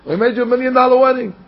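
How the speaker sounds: high-pitched, hurried objection; incredulous protest. Acted. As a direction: protest in disbelief at the request. King protests request for another wedding.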